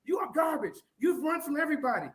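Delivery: fed-up and worked up; heated argument. Real, not acted. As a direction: argue back in a high, agitated voice. Heated quarrel, threatening to leave.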